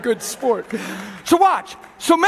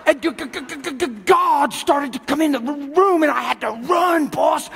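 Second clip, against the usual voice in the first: stammering imp. Acted. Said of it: "this little imp goes".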